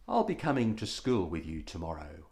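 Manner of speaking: low, soft, quick resolve; quietly furious mother. A narrator's reading. Mother telling son she'll come to school, quiet fury. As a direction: contain the anger, voice dropped low. Angry mother, steam from her ears.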